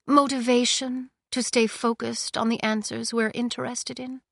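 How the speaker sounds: calm and in control; lightly voiced cold queen. Queen to her thaumaturge, lightly voiced and cool.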